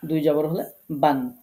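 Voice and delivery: বান, ending clearly in আন; tanbin an sound. Shown as a demonstration. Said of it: "আন উচ্চারণ হয়". (তানবিনের আন উচ্চারণ)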